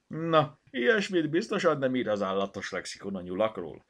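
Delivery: loud, high-starting teasing remark; amused, laughing. A narrator's reading. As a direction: tease with a touch of laughter. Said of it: "nevetett Bogi". (nevetős, hangos csipkelődés)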